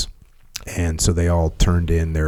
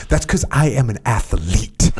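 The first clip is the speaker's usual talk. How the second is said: imitating Scott. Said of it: "He would say like that".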